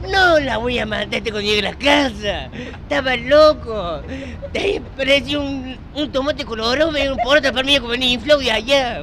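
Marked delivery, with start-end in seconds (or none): 0.1-4.0 retold raging threat, fairly loud; crazed yelling. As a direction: rant it out like a madman. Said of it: "gritaba como loco". (despotricar como loco)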